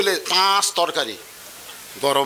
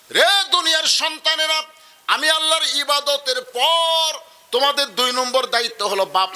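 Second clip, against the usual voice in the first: put-on preacher urging children to serve their parents; fiery preaching; slower than usual. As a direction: preach it, drawing out each command. Preaching at full force.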